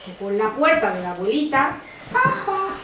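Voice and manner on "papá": imitated knock. Knocking at grandmother's door.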